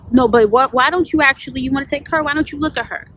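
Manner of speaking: loud, heated pushback; indignant retort. Retold or imitated. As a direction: argue back hard. Retold argument with bosses.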